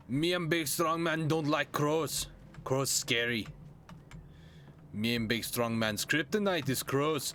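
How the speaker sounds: lightly voiced caveman; a hint of caveman brute; big strong man voice. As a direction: dim strongman fretting about crows. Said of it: "like, that accent".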